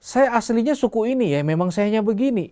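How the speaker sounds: high, mocking singled-out quote voice; childish adult excuse. Preacher mimicking childish adults who excuse themselves, high mock voice. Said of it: "Pasti sering ngomong gini".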